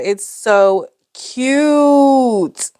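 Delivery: drawn-out gush. Real, not acted. Gushing over cute page.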